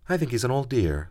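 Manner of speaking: Susan's voice. Acted. Susan's voice in the story.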